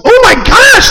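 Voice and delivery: high, loud shout; mock freak-out. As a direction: yell it in hammed-up despair.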